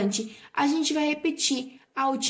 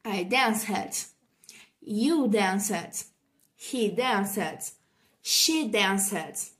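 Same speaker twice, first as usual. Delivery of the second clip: careful language-teacher drill; measured model sentences for learners; repeat-after-me modelling; 3 semitones lower, much slower than usual. Shown as a demonstration. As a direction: say each short phrase distinctly, pausing for students to echo. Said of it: "repitam comigo".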